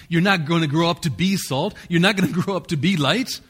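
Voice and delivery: "not" pushed up, mock-absurd; stress on not. Shown as a demonstration. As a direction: hit the word not, half laughing. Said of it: "No, we are salt".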